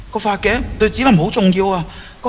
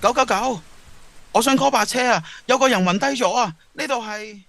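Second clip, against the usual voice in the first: urgent phone call; 5 semitones higher than usual. Acted.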